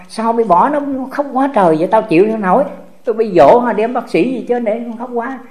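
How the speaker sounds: a lightly voiced fretful grandfather; ông nội sốt ruột. Ông nội lo cho cháu khóc. (giọng ông nội sốt ruột, cao giọng)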